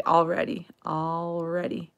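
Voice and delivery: "already" with the L softened almost away; dropped L. Shown as a demonstration. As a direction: say "already" with barely any L, then stretch it. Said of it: "we drop the L".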